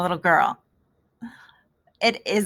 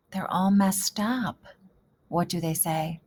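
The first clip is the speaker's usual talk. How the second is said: whisper; 2 semitones lower, 5 dB quieter than usual. Pretend. Teacher talking to readers.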